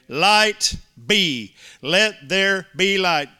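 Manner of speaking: loud, slow divine command. Acted. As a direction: proclaim it with full force. God's creative command.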